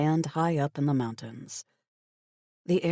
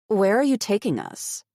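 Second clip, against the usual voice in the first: anxious; 5 semitones higher, 4 dB louder than usual. A narrator's reading. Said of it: "anxious energy making my voice rattle".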